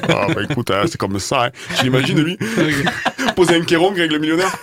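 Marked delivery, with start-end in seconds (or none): 0.1-1.5 lazy southern drawl. Retold or imitated. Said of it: "il se dit ça en se grattant les couilles".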